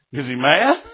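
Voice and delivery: acted-out alarm; alarmed question. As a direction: ask it like a son dreading dad's anger. Retold scared son in jail.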